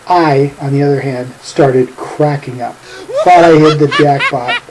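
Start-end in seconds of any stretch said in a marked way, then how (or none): 3.2-4.6 amused laughing. Real, not acted. Telling how he cracked up.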